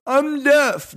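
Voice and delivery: high, loud sudden claim; pretend outburst. Shopper shutting down a salesman, loud mock blurt. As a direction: blurt it out to shut him down. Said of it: "just went".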